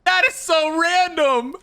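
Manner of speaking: sudden high squeak of disbelief, slowing on the last line; shocked disbelief. Real, not acted. Streamer reacting to the game's random pizza idea, shocked high disbelief. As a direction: blurt it out like you can't believe your ears.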